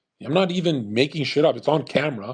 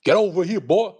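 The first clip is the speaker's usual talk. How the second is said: imitating a yell, higher and louder; mock racist yell; 5 semitones higher, 4 dB louder than usual. Imagined ancestor chasing a man, hammed-up yell. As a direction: bark it like a man chasing someone down. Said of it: "chased down a Filipino ... and said".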